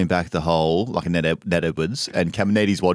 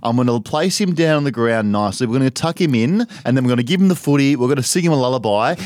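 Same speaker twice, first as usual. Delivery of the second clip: mock gentle tackler; 2 semitones higher than usual. Mocking soft modern tackling.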